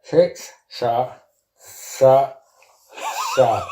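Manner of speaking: tongue held, words mangled; holding tongue with fingers. Real, not acted. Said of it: "you're gonna have to take your mouth out".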